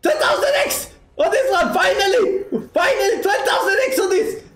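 high, squealing excitement with laughs; shrieking jackpot winner. Real, not acted. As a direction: shriek over a huge jackpot. Huge slot win on stream.

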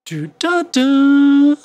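last "da" shouted high and loud; sudden high, loud accent on the final da; strong accent. Shown as a demonstration. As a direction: belt the final da. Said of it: "The, the strong kind of feel is somewhere here".

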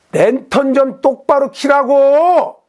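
slow, pointed angry order; angry retort. Retold or imitated. Angler scolding the beginner about his lantern, slow and angry. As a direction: lay down the law slowly, irritated.

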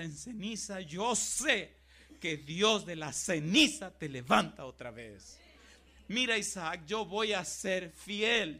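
building from earnest to loud cries; father vows faithfulness to his son, crying out; Abraham's impassioned vow. Acted. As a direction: swear it with everything you have. Abraham's vow acted, rising to cries.

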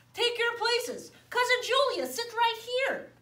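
mother bear directing her family; mama bear. Acted. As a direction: seat the guest kindly but firmly.

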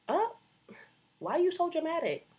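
high, loud mocking whine; exaggerated mock whine. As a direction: screech it like a mocking critic.

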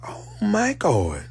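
slow, breathy unvoiced gasp of words; stunned whisper. Taking in the death news, a stunned whisper. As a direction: whisper it in shock.

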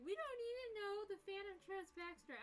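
high, loud whiny mockery of other fans; lampooning dismissive fans, loud and high; mocking quote. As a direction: parrot them in a snotty sneer. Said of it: "some people are like".

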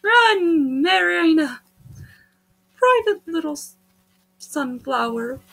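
high, teasing Russian voice; Russian accent. Acted. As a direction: taunt her in a Russian accent. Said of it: "I'm doing the Russian voice".

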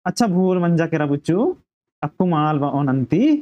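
gently acted apology; affectionate. Dharmu apologises to his friend after the cap quarrel, affectionately. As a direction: soothe a friend with mild affection. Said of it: "बुच्चू प्यार से बोल रहा है".

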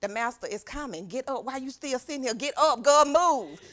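hustle her up with growing impatience; imitating bossy Martha. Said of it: "I bet Martha was like".

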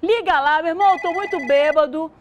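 put-on loud slurring drunk caller. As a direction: beg for a ride, sloshed. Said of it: "Consegui enganar, não?". (bêbado pedindo socorro)

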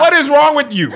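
high, loud, alarmed yelps; startled high-pitched victim. Pretend. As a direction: act out being bitten, panicking. Continuing bitten victim.

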